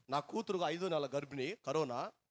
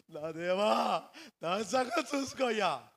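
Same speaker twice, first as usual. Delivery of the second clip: mock whiny prayer; 6 semitones higher, 5 dB louder, slower than usual. Mocking a self-pitying prayer.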